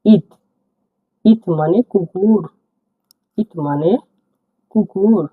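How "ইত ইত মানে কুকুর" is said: ইত said slowly with a crisp t; teacher pronouncing ইত slowly; word demo. Shown as a demonstration. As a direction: model ইত for learners. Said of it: "উদাহরণ দেখছি দেখুন".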